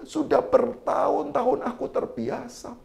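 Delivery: soft, slow goading dare; soft taunt. Retold or imitated. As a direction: quietly dare him to strike. Istri menantang suami memukul. (menantang dengan suara pelan dan lambat)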